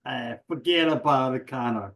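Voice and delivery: lightly put-on New Jersey accent, barely shifted; a half-hearted New Jersey tough guy with a shrug; a hint of a New Jersey accent, mostly his own voice; bad New Jersey accent. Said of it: "for I'm bad New Jersey accent".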